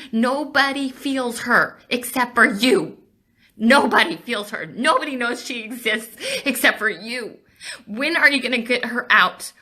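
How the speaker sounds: real emotional outpouring. Real, not acted. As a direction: plead with real urgency, welling up. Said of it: "I'm getting so emotional".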